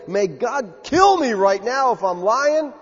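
slow, stressed oath; solemn oath. Acted. Peter calling down an oath on himself, emphatically. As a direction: swear it slowly, leaning on each word. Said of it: "He is swearing an oath to say".

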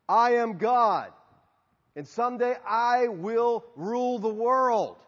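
slow, grandiose self-proclaimed god; megalomaniac rant. Pretend. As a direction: preach your own divinity, drawn out. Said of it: "made some of these outrageous claims".

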